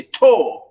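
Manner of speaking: "to" isolated as the stressed first syllable of torture; stressed syllable alone. Shown as a demonstration. Teacher isolating the stressed syllable, "to" said with weight. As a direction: say "to" alone as a full, weighted beat. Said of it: "we stress the first one".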